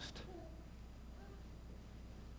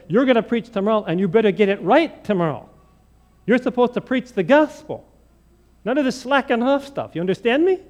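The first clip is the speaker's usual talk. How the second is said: louder, scolding lecture; stern warning; 4 semitones higher, 3 dB louder than usual. Retold or imitated. Dean of students scolding the seminarian, a touch stern. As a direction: lay down the law to the student.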